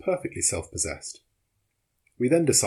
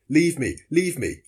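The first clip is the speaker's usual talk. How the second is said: higher, louder, drawn-out plea; urgent plea; 6 semitones higher, 5 dB louder, slower than usual. A narrator's reading. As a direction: slowly urge your companion to let go. Exhausted man urging companion to go.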